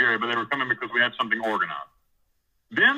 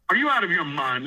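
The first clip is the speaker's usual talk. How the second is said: higher, mildly incredulous retold question; 6 semitones higher than usual. Prisoner answering God's order to preach, incredulous. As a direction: repeat it in mock disbelief, pitch lifted.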